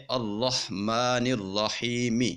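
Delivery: الرحمن الرحیم recited slowly, the ی of الرحیم stretched one alif; drawn-out recitation of الرحمن الرحیم; slow Quranic recitation. Shown as a demonstration. Quran tutor recites الرحمن الرحیم for students, slow and measured. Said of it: "ہم اس کو کیسے پڑھیں گے؟".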